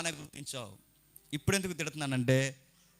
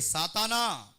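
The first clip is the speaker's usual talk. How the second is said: sharp, raised rebuke to Satan; 5 semitones higher, much slower than usual. Acted. Jesus turns on Peter in rebuke, rebuking. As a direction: call out the name as a rebuke. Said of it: "ఆయన పేతురు వైపు తిరిగి".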